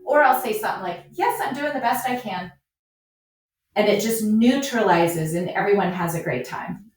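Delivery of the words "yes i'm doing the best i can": higher-pitched, good-natured reply; cheerful comeback. Acted. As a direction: agree lightly to disarm the critic. Models cheerful reply to a critic.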